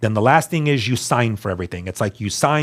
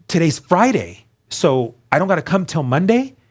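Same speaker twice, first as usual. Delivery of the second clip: higher, incredulous question; retold disbelief; 6 semitones higher than usual. Asking rehab if he really waits till Monday, amazed. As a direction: ask it like you can't believe your luck.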